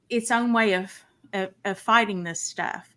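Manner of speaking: breathless, catching her breath. Real, not acted. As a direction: talk while still winded. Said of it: "Sorry, I'm a little out of breath".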